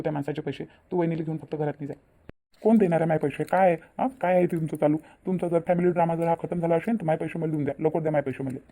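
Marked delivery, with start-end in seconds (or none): 2.6-8.6 demanding. Acted. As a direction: bark at the family to pay up. Moneylender demands money.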